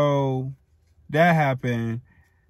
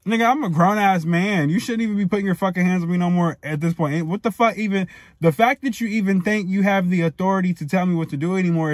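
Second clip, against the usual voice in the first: raised pitch, heated protest; worked-up, insistent telling-off; indignant rant; 5 semitones higher than usual. Retold or imitated. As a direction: argue back at dad as a grown man fed up. Indignant rant at dad who hit him.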